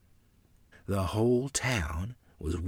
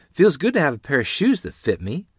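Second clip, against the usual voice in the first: put-on pleased child, higher and louder; happy, contented; 8 semitones higher, 10 dB louder than usual. A narrator's reading. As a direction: say it with happy pride, pitched up. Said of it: "gazing happily at them".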